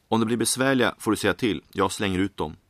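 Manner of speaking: a barkeep laying down the law, quick and firm; gruff bartender. Acted. Bartender warns the man about his creatures, gruffly. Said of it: "säger bartendern barskt".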